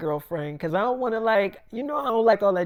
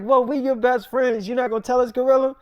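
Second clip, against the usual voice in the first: higher and louder, pushing for the gossip; excited girlfriends; 6 semitones higher, 5 dB louder than usual. Retold or imitated. Friends demanding that Gorilla spill the details, excited and louder. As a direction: squeal like nosy best friends.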